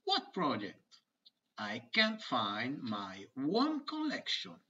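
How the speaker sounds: lively textbook dialogue reading; acted dialogue. Teacher voicing two schoolkids for her students. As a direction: voice the kids brightly for the class. Reads aloud a children's dialogue.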